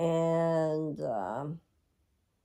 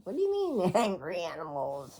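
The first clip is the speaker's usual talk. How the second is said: surprised question. Retold or imitated. Asking the dying husband, amused.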